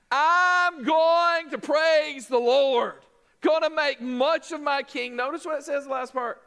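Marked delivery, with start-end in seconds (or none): 0.1-5.2 determined vow. Retold or imitated. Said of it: "He said, "Not me".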